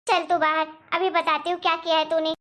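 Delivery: loud, high furious calling out; shouting angrily. Acted. Mother-in-law yelling for the family to come, furious. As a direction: rouse the whole house in anger. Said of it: "ऐसा क्यों चिल्ला रही हैं आप".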